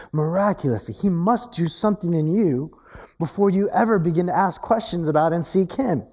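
ordinary talk, nothing marked

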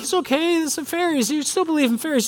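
high, soft reassuring voice; comforting dad. Retold or imitated. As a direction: soothe a crying child gently. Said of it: "I'm like".

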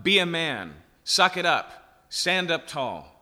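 mock drill sergeant telling him to toughen up; tough-love pep talk. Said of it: "It's not".

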